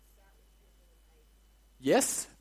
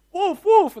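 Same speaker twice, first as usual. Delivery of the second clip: high, loud pretend cry for help; hammed-up high yell; mock alarm cry; 14 semitones higher, 10 dB louder than usual. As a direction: call out like a prankster raising the alarm. Acting the boy crying wolf.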